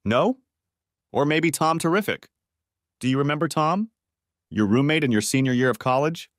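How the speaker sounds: mocking, biting sarcasm; sarcastic. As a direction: needle her with fake sweetness. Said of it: "I said it sarcastically".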